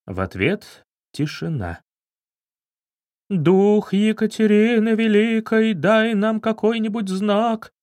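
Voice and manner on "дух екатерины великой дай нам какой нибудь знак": slow, higher eerie summoning; insistent medium. Acted. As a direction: keep calling the spirit, stubborn and solemn. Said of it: "не сдавалась баронесса". (упорный медленный зов медиума)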